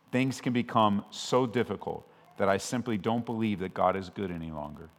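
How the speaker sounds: normal talking voice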